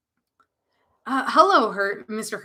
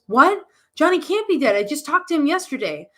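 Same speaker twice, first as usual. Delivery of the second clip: shocked; 5 semitones higher, 3 dB louder than usual. Acted. Shocked reaction to death.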